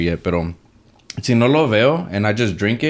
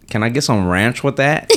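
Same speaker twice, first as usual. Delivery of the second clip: put-on Southern American accent. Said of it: "let me try my American accent".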